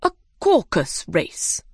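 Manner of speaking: slow, lightly voiced pompous dodo; dodo character voice. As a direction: draw it out like a dodo making an announcement.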